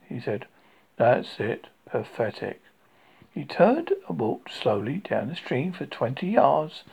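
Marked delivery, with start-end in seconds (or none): 1.0-2.6 gloomy donkey. Acted. Gloomy donkey muttering to himself.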